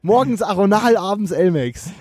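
high, announced title; announcing a title. Shown as a demonstration. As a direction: present it like a headline. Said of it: "richtig guter Folgentitel".

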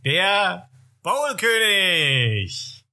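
slow, drawn-out, high showman's call; booming stage introduction. Pretend. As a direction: announce the king of bowls to the crowd. Announcing Erik like a star.

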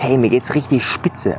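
slow, emphatic, savouring "richtig spitze"; enthusiastic answer. Shown as a demonstration. Coach demonstrating a strong answer to "how are you", emphatic. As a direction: sell how great you feel. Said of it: "dann hat das eine ganz andere Intensität".

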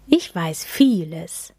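slow, knowing and secretive; mysterious undertone. Acted. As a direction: let it hang with a secret. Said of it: "mit geheimnisvollem Unterton".

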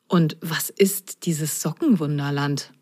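hushed, wondering whisper; cat whispering his puzzled thought. Acted. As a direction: whisper it to yourself. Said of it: "dachte Moor".

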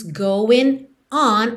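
GOING, then ON set apart; separated words. Retold or imitated. Teacher quoting the song's final line, going and on separated. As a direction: split "going" from "on". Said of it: "ela separa going de on".

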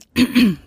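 loud demonstrative throat clear. Shown as a demonstration. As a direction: clear your throat pointedly. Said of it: "sich ständig räuspert".

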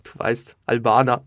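low-key, laconic answer; trying to act cool. Retold or imitated. Young interviewer tells the rapper his origin, playing it cool. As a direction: toss it off casually, trying to seem cool. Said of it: "ich muss jetzt cool wirken".

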